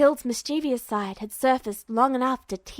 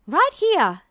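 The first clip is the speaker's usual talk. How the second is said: higher, loud call; called back; 5 semitones higher, 6 dB louder than usual. Acted. Hild calling back to Duo, loud and higher. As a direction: answer across the room. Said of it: "she called back".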